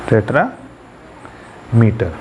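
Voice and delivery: टेट्रामीटर stretched very slowly for emphasis; drawn out. Shown as a demonstration. Teacher repeats the new term slowly for students. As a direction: let every syllable hang. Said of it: "उसको कहते हैं टेट्रामीटर".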